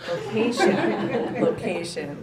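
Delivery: real laughter through the words; slogan broken up by laughs; laughing. Real, not acted. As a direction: keep going while cracking up. Cracking up while repeating slogan.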